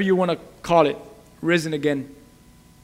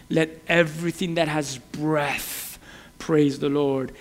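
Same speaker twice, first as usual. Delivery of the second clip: inner voice replaying; 3 semitones lower, 5 dB quieter, slower than usual. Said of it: "it continued to say to me".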